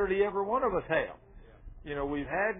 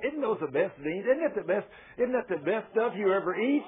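higher-pitched mock gushing over food; enthusiastic eater; 3 semitones higher than usual. Instigator across the table raving about dinner, imitated enthusiastic gushing. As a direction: imitate an eager egger-on at the table.

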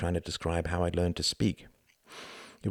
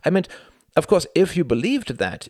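own voice; 10 semitones higher, 6 dB louder than usual. Acted. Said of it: "Sorry, that is your brother talking".

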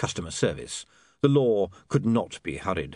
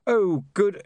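nervous greeting; 9 semitones higher, 3 dB louder than usual. A narrator's reading. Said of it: "he managed".

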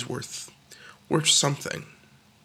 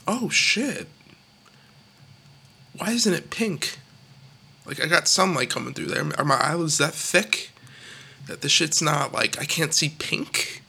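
puzzled inner voice. Retold or imitated. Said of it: "and you think".

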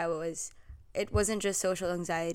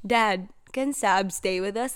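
put-on drunk slur; 4 dB louder than usual. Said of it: "Like, in a very drunk way".

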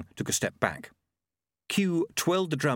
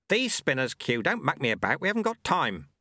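impatient sweeper, pitched up; Lutze; 5 semitones higher than usual. Acted. Sweeper demanding the hidden spinners, impatient. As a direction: press him firmly as the sweeper.

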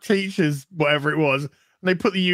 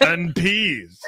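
laughing. Acted. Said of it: "read this one in your voice".

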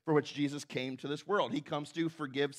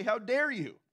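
mock indignation. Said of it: "They say".

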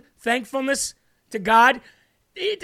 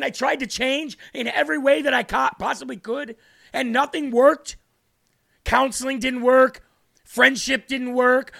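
impassioned outcry; 2 semitones higher than usual. Real, not acted. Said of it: "Why is he screaming?".

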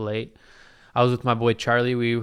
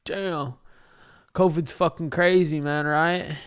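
lazy God voice; 4 semitones higher than usual. Retold or imitated.

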